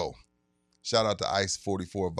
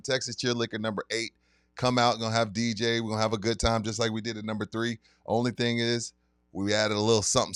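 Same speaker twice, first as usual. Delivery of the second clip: sponsor ad read. Acted. Host reads liquor store sponsor ad to listeners, hype announcer voice. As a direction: sell the event like a radio spot.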